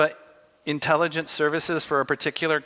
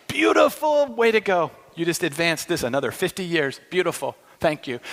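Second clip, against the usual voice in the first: gleeful Satan. Pretend. Satan gloating over a war, mock cheering. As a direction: cheer on the war like a delighted devil. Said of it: "Satan would be going".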